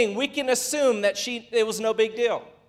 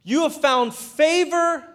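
You have found favor, slowed and lifted high; savoring emphasis; 5 semitones higher than usual. Shown as a demonstration. Preacher repeating the verse to the congregation, slow and lifted. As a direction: lean on favor and let it land. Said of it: "Now this is so good".

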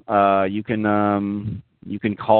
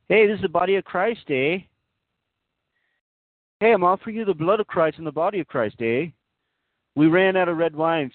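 put-on high-pitched hoser Canadian accent; hammed-up Canadian accent, pitched well up; Canadian priest; 8 semitones higher than usual. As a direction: play a chummy Canadian priest, ending in "eh?". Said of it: "There's also a Canadian archbishop running".

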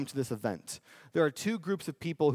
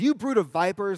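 louder, punchy mock rebuke; John rebuking; 5 semitones higher, 6 dB louder than usual. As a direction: fire it at them like a playground burn. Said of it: "he goes".

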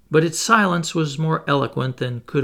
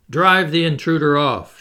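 raised, higher-pitched demand; a narrator's contained shout, louder and higher; crowd shouting; 4 semitones higher, 6 dB louder than usual. A narrator's reading. Audience demands the opponent's removal, shouting. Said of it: "shouted others".

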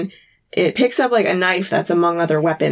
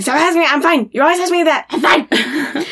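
mock annoyed Sam; 8 semitones higher than usual.

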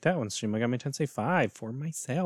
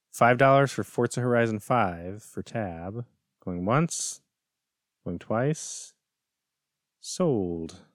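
auction call with going once, twice, sold; auctioneer; slower than usual. Acted. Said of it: "auction call".

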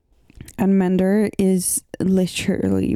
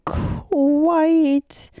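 whispered emphasis; 8 semitones higher than usual. Real, not acted. Dramatic emphasis on stress.

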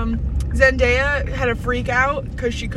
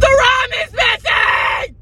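mock alarm; 12 semitones higher, 6 dB louder, slower than usual. Mock alarm at missing file.

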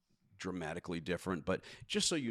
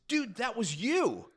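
high, slow amused voice; amused executive voice; 13 semitones higher, 5 dB louder, slower than usual. Retold or imitated.

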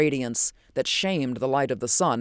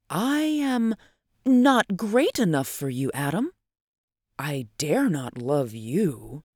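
gentle refusal; slower than usual. Acted. Athalia turns down Adam's wooing, gently regretful.

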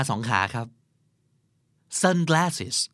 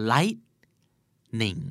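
1 syllables apart. Shown as a demonstration. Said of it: "teacher splits lightning into syllables".

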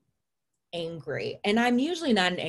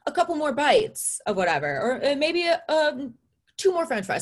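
high, sing-song coaxing; mimicking friends coaxing her to eat; 8 semitones higher, 3 dB louder than usual. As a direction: gently bargain like a worried friend. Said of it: "kind of trying to egg me on".

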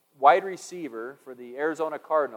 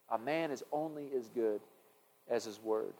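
repeated saying; 3 semitones lower, 11 dB quieter than usual. Shown as a demonstration. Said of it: "there's this saying".

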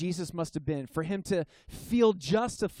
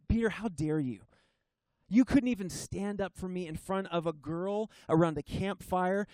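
imagined rebuke; 2 semitones higher than usual. Pretend. Preacher voicing an imagined angry Jesus, building to a mild rebuke. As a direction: scold him like a betrayed friend, then drop away at the end. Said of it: "You can't hear Jesus speaking like that".

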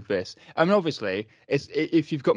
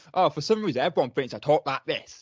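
Michael Caine; 3 semitones higher, 3 dB louder than usual. Acted. Co-host quotes the actor's interview answer, lightly impersonated. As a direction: mimic the much-imitated actor. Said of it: "everyone's impression of Michael Caine".

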